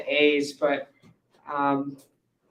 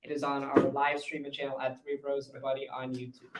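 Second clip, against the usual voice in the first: louder, slightly raised announcer delivery; podcast sign-off; 8 dB louder than usual. Real, not acted. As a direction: wrap up the show for the listeners.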